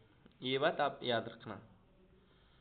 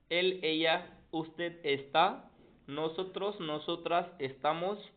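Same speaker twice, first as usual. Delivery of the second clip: drill recitation; 2 semitones higher than usual. Shown as a demonstration. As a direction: chant the forms one by one for the class. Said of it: "full conjugation recited louder". (तेज़ आवाज़ में रटने जैसा पाठ)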